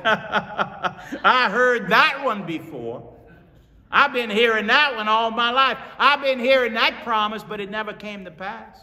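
high, loud, laughing through the words; laughing disbelief. Acted. Sarah laughing off the angel's promise, high and amused. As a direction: scoff at a promise heard all her life. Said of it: "she starts laughing".

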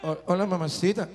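put-on amused try at a Colombian accent; playful, hesitant Colombian imitation; attempted Colombian accent. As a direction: copy the Colombian lilt, half-laughing. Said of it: "con el acento".

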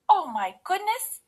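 high, loud shocked exclamation; Mommy Bear. A narrator's reading. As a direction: gasp upward in motherly surprise. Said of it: "gasped Mommy Bear".

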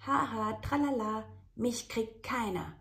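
high, loud gleeful kitten; cheeky kitten. Acted. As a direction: tease in a high singsong.

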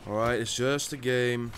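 low, soft reassurance to self; subdued self-calming. Real, not acted. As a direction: quietly talk yourself down. Calming self before exploding.

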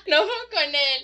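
carcajada y luego habla riendo; no puede parar de reír; laughing. Real, not acted. Se ríe de Beón. (riéndose de Beón sin poder parar)

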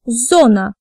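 "Зона" stressed on a full O; stressed O demo. Shown as a demonstration. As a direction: model "Зона" for learners, leaning on the O. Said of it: "words where O is stressed".

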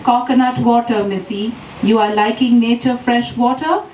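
lightly voiced kid vendor in Kerala English; a hint of a cheeky street seller; yelping hawker boy. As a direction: pitch the coconut water to the foreign lady. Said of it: "yelped a hawker".

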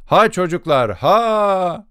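rising, high urging call; urging cry. Acted. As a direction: push the straining crew on. Foreman straining crew to pull. (yükselen tiz teşvik çağrısı)

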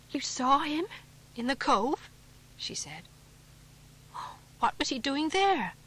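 can't believe her ears; disbelieving. A narrator's reading. Wife questions in disbelief.

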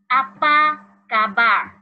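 slow, carefully spaced Malay read to pupils; slow clear reading. Shown as a demonstration. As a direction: read each word slowly for the class. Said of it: "第一题".

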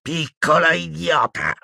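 high, exasperated outburst; villainess yelling. A narrator's reading. Umbridge berating Hermione, high angry yell. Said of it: "urlò la Umbridge".

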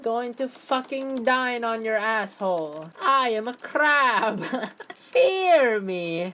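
slow, lightly menacing crab voice; mock crab. Gamer voicing his crab avatar to viewers, slow mock menace. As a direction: drawl it like a silly monster crab.

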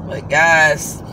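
worn-out, weary voice; tired voice. Real, not acted. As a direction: sound drained after a double shift. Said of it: "y'all can probably hear it in my voice".

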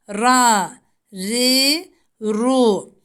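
"Ra" and "ru" thick and full, "ri" thin; Ra syllables. Shown as a demonstration. Teacher shows students thick and thin Ra. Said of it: "Ra harfi hem kalın hem ince okunur".

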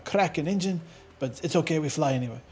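lightly put-on French accent; fake French accent. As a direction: casually imitate a movie Frenchman's English. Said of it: "that's my French accent".

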